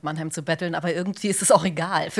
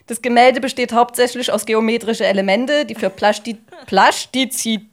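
Mannheimer Dialekt. Acted. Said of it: "die Monomer-Version dieses Roboters".

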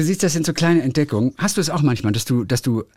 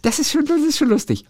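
squeaky giggle then talk; high laughing; 13 semitones higher than usual. Real, not acted. Amused by the book, laughing high.

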